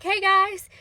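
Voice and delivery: a big excited hello; cheery greeting. Retold or imitated. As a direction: greet the kids like a fun uncle. Bishop greeting excited kids.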